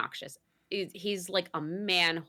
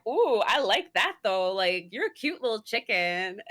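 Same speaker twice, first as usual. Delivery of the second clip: flirty coworker voice; 3 semitones higher, 4 dB louder than usual. Retold or imitated. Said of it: "the other guy's like".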